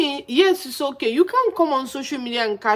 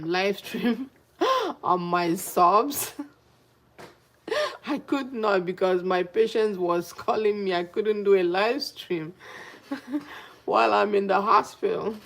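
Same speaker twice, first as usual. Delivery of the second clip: talking through laughs; laughing. Real, not acted. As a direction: let laughter break into the story. Laughs recounting failed live stream.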